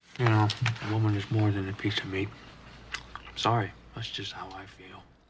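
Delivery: mock soft mumble as through food. Retelling how Mark Angel answered Courtney, Mark Angel, mouth full of burrito. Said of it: "mouthful of burrito".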